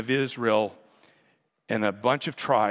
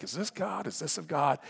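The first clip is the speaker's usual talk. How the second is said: higher-pitched mock wondering; lightly acted puzzled questioning, pitched up; unsure questioning; 6 semitones higher than usual. Believer sorting through messages, unsure questioning. Voicing a listener's doubts in prayer.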